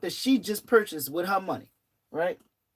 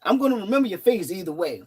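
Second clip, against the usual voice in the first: louder, pointed warning to a rude customer; mock threat; 3 semitones higher, 4 dB louder than usual. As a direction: call after her as a threat. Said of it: "I said".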